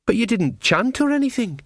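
put-on high, puzzled young voice; a girl who expected chanting; surprised girl. A narrator's reading. Perdita surprised.

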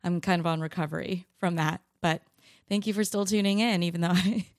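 hoarse smoker's voice; gravelly, raspy voice from a cold; vocal fry. Real, not acted. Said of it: "voice fry and, like, an incredible, like, smoker's voice".

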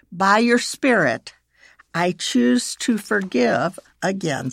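deliberate prayer, each phrase set apart; slow prayer reading. Shown as a demonstration. Leading listeners to choose forgiveness in prayer, slowly. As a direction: pray it slowly and firmly. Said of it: "I will read it slowly".

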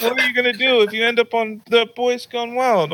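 high mock-grandma voice; worried grandma. Grandma challenging grandson on the phone, high imitation.

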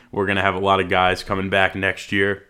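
talking through hiccups; trying to suppress hiccups; hiccuping. Real, not acted. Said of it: "I can't stop hiccuping".

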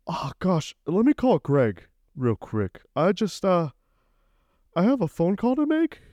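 very high, gushing flatterer; butter him up in a squeaky high voice; panicked high-pitched schmoozing; fawning suck-up. Acted. Sucking up to the CEO.

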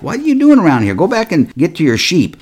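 acted-out irritated dismissal; angry. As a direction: play the annoyed older brother sending someone off. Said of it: "he was angry".

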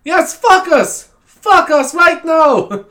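loud, high, drawn-out German teacher command; German accent. Retold or imitated. German teacher insisting to pupil, loud slow accent. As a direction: insist at full volume in exaggerated German accent. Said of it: "so she'd say focus".

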